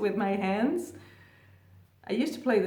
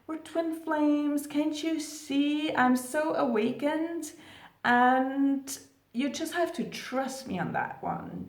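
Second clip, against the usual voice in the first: superior, condescending; 4 semitones higher than usual. Pretend. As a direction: act spiritually above him, patronizing. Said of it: "You have sort of this higher attitude".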